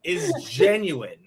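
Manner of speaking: slowly, word by word; slow emphatic. Pretend. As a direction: spell it out slowly and firmly. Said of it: "deliberate slow declaration".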